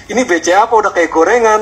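amused mock disbelief; retold surprise. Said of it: "Aku sendiri kaget tuh bilang".

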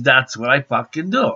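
snapping "That's what I fucking do." with a sharp rise on "do"; defiant version. Shown as a demonstration. Retelling his reply to the officer, the defiant way he did not say it. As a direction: throw "fucking" in, talk back hard. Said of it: "I didn't say it like that".

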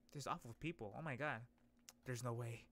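ordinary talk

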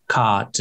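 "cot" with a British ah, tongue held down; British A sound. Shown as a demonstration. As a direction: say "cot" low in the mouth, British style. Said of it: "when you guys do the ahs".

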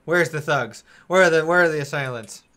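loud, brisk guard arriving on the scene; loud, demanding shout for the culprits; guards calling out. Acted. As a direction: call out like an armed guard. Armed guards arrive asking for thugs.

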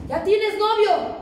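slow, high, loud mock mom asking; nosy mother. Mom asking her daughter about a boyfriend, slow and loud. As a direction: drag out the question like a suspicious mom.

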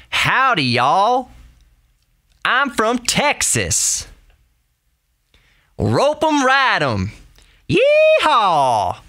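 high, drawn-out, hammed-up Texan accent; stereotypical Texan accent. Shown as a demonstration. Host showing Europeans the TV stereotype, extreme Texan accent. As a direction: holler like a cartoon Texan, long drawl. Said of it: "That's a very stereotypical Texan accent".

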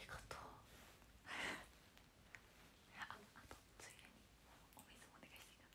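very soft unvoiced whisper. Real, not acted. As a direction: whisper the favour so the mic barely hears. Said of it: "whispering request to sister off-mic". (小声のささやきでお願いする)

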